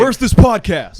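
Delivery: put-on high, loud confused old-timer voice; mock boomer. Boomer stumbling on the podcast, confused loud squawk. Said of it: "some fucking boomer is gonna watch".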